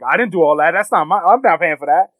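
mock an indignant denial, voice pushed up; acting out someone refusing blame; defensive denial.

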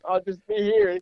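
high, chirpy mock-cheerful child; ironic kid. Tied-up boy assures his mom he's not going anywhere, chirpy and ironic. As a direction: play it breezy, as if nothing's wrong.

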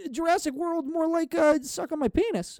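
high, punchy gag delivery; mock punchline voice; joke rhyme. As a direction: sell the silly rhyme. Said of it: "Jurassic World Dominion".

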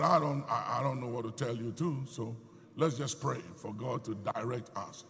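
ordinary talk, nothing marked

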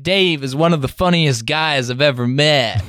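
put-on British man putting on an American accent, slow and drawn out; botched American accent from a Brit. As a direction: drawl it in a wobbly fake American accent. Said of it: "he's sort of doing an American accent".

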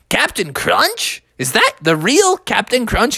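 lightly voiced amazed kid; Froggy. Boy meeting his cereal hero, lightly amazed. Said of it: "And Froggy was like".

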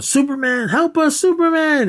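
high-pitched mock plea to a hero; retold cry for help. President pleads on air for Superman, retold cry for help. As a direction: imitate a desperate call for rescue. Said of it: "the president starts going".

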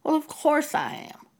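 mock the shameless ease of it; smug matter-of-fact tone. Imitating the teacher admitting it, unashamed and breezy. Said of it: "he said it in that tone of voice".

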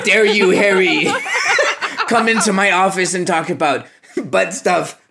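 a scandalized professor losing it, half laughing; mock outrage. Slughorn scolding Harry in mock outrage, laughing.

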